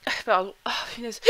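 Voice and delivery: hiccup then a quick apology. Real, not acted. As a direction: caught by a hiccup. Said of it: "J'ai le hoquet".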